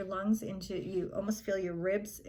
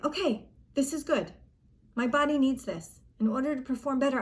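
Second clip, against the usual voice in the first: higher-pitched, encouraging pep talk; upbeat self-talk; 4 semitones higher, 3 dB louder than usual. Acted. Gymnast telling herself the nerves help, upbeat and higher. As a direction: talk yourself into welcoming the nerves.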